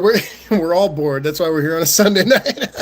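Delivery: laughing through the words; real amused chuckle while talking. Real, not acted. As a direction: let a chuckle break into the line and spill out at the end. Joking that everyone is bored.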